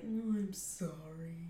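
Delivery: breathy, slow little whisper; whispered apology. Retold or imitated. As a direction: whisper it sheepishly, slowly. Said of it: "And he's like".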